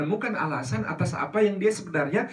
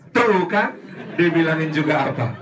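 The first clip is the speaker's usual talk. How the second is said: loud told-you-so nag; mother scolding her fallen child, told-you-so; nagging mother; 5 dB louder than usual. Acted. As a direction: scold like an annoyed mom. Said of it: "Kalimat apa yang pertama kali".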